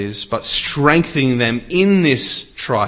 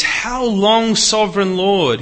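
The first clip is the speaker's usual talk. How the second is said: higher and louder, a pleading cry to heaven; 9 semitones higher, 6 dB louder than usual. Acted. Martyrs crying out to their sovereign Lord in a loud voice. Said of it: "They called out in a loud voice".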